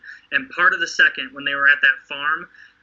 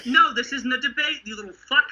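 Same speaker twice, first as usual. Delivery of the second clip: mock father and son; 6 semitones higher than usual. Rick and his son Carl.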